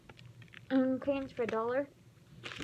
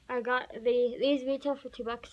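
chewing a mint; 4 dB louder than usual. Real, not acted. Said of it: "sorry, I'm chewing on the mint".

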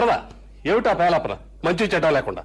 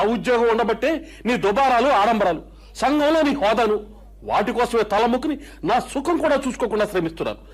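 angry retort; 6 semitones higher than usual. Acted. Husband scolding wife in quarrel.

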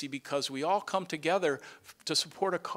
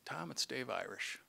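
softly voiced, gentle retold words; 2 semitones lower, 11 dB quieter than usual. Retelling the board chair's phone call, soft and gentle. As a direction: quietly recall his kind voice on the phone. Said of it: "that gentle voice said".

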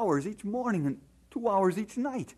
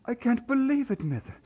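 louder, higher cry of shock; stunned disbelief; 3 semitones higher, 4 dB louder than usual. Acted. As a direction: blurt it out, thrown by the news. Hears friend Willie is dead.

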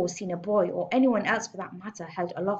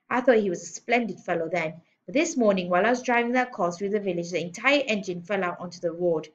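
lightly voiced indignant rant; bullying headmistress, outraged; 4 dB louder than usual. Headmistress rages about a bad car, lightly voiced outrage. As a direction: punch phrases while building the complaint.

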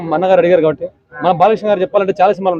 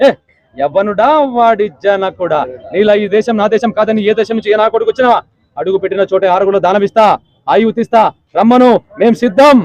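Satakarni dialogue. Retold or imitated. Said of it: "Gautam Buddha శాతకర్ణిలో".

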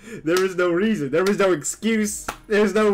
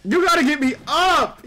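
shouting; 7 semitones higher, 5 dB louder than usual. Real, not acted. Begging teammate for revive.

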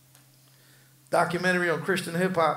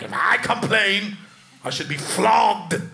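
laughing, louder mock old-timer reply; louder, laughing retelling of the old-timer's line; mock old-man complaint; 2 semitones higher, 5 dB louder than usual. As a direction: ham up the old man's answer with a laugh. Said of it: "you start talking like that".

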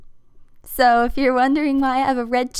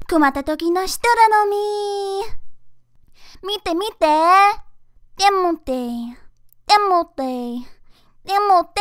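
put-on high cute anime girl; 3 semitones higher, 4 dB louder than usual. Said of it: "that was all my voice acting".

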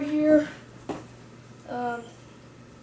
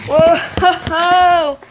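surprised whoa; 3 semitones higher, 6 dB louder than usual. Real, not acted. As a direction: blurt it out amazed. Sees what's in the box.

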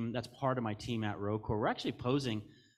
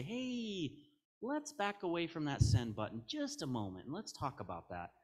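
gentle intervention; 4 semitones higher, 4 dB quieter than usual. Acted. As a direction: talk someone down, easing quieter to the end. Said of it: "people around you who can say".

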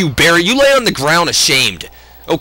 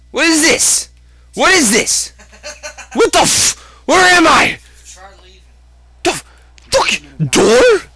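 much higher, baffled and loud; confused shock; 12 semitones higher, 3 dB louder than usual. Real, not acted. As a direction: blurt out total confusion. Game suddenly changes scene.

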